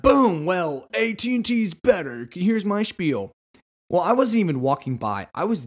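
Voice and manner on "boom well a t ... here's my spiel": a hint of a high, eager pitch; pushy salesperson. Salesperson pouncing on a T-Mobile customer, mildly eager. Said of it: "And they're like".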